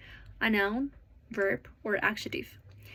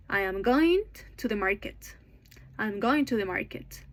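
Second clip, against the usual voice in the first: I'm GOing to the MARket, as a rhythm demo; content-word stress. Shown as a demonstration. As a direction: put the beats on "going" and "market". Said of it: "going and market are stressed".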